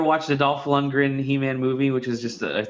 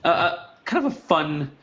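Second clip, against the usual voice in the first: spinning in office chair; 7 semitones higher than usual. Real, not acted. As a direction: voice swinging while spinning round. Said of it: "I'm spinning in my chair right now".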